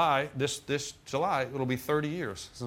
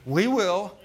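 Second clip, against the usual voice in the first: emphatic; 6 semitones higher, 6 dB louder than usual. Real, not acted. Preacher repeating his declaration.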